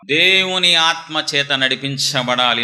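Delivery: slow, sung-out verse with long held vowels; drawn-out preacher's chant; scripture recitation. Acted. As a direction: intone it like a chant, very slowly.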